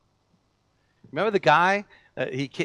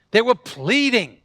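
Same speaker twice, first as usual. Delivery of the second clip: emphatic preaching; 4 semitones higher, 6 dB louder, slower than usual. Acted. Pastor stresses eager pleading.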